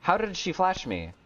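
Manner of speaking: high, incredulous complaint; indignant disbelief. Real, not acted. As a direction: protest the unfair flash in disbelief. Indignant at surprise flash.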